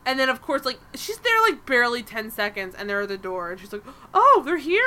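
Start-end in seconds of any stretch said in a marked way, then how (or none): 4.1-4.8 high, louder feigned surprise; mock surprise. Podcaster mimicking her at the door, mock surprise. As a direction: act caught off guard, pitched up.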